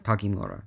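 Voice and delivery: "Takemura" run together as tah-kee-moo-rah; quick, blended "Takemura" with KE as "kee"; said fast. Shown as a demonstration. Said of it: "when you say it fast".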